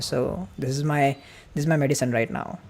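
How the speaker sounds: rushed, breathless and fading; gasping from talking too fast; out of breath. Real, not acted. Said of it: "I'm speaking so fast that I'm running out of breath".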